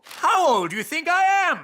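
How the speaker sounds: indignant. Acted. King indignant about dinosaurs.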